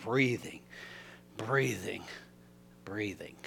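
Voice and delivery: fading to whisper. Retold or imitated. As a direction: let each word die away like a slow breath. Calming himself by breathing.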